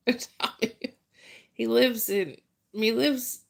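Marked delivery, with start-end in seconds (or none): 0.1-0.9 put-on slow, drawn-out Italian with a New Jersey Italian accent; Italian-American Italian. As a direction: stretch Italian out like the friend from Jersey. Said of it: "he's got the Italian".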